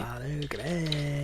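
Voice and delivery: slow, drawn-out promo announcer. Acted. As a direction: say it like a TV promo tag. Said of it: "about to come in with the commish".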